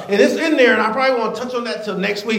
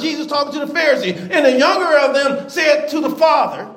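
preaching; 5 semitones higher than usual. Real, not acted. Reads scripture in preaching voice.

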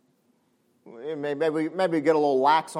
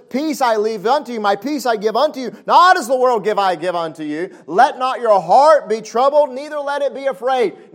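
louder, measured scripture quote; voicing Jesus; 6 semitones higher, 8 dB louder than usual. Preacher quoting Jesus to the church, solemn and loud. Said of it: "And he says".

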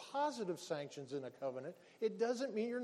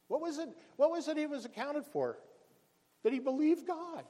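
louder and higher, driving the point home; rising preacher's cry; 7 semitones higher, 4 dB louder than usual. Real, not acted. Pastor stirring the congregation, loud and higher. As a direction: preach it out full force. Preacher's climax about Abraham.

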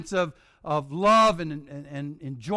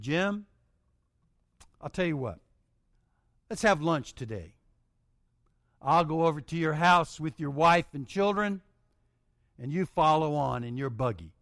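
calm invitation; 3 semitones lower than usual. Retold or imitated.

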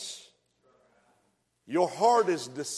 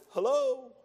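voice of God; 5 semitones higher than usual. Retold or imitated. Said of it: "and God said".

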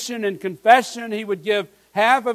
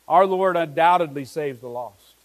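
weight on each word of "Our Lord undoubtedly saves the lost"; emphasis on every word; 5 semitones lower than usual. Shown as a demonstration. Preacher presenting the last truth, every word emphasized. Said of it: "with the emphasis on all those words".

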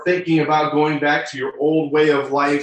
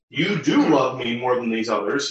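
YOU DO pitched up and stressed; emphatic. Shown as a demonstration. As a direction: punch "you do", then ease off. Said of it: "uh, emphatically that".

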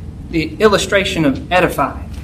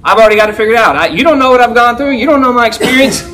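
mild know-it-all protest, pitched up a little; prideful objection; 3 semitones higher, 3 dB louder, faster than usual. Acted. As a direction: brush off advice with mock pride.

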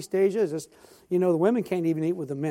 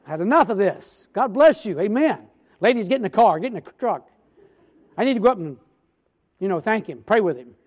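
laughing mock exasperation; 3 semitones higher, 8 dB louder than usual. Joking, cutting off repeats.

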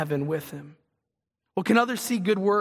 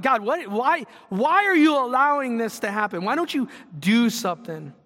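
higher and louder, a frustrated cry to heaven; exasperated plea to God; 4 semitones higher, 3 dB louder than usual. Retold or imitated. Asking God why he allows suffering, exasperated. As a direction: demand it of God, voice climbing.

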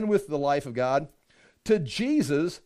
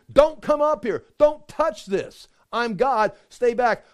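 stern warning; 3 semitones higher, 4 dB louder, slower than usual. Retold or imitated. Preacher voices God warning people off the mountain, loud. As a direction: keep them back, commanding.

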